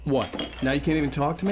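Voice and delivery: annoyed wife. Acted. Wife confronts him, quarrel.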